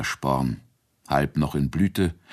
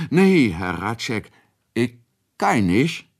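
refusing maid; 6 semitones higher, 4 dB louder than usual. A narrator's reading. Maid refuses her master.

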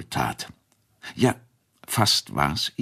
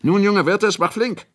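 impatient call; 5 dB louder than usual. A narrator's reading. Master urges reluctant boy.

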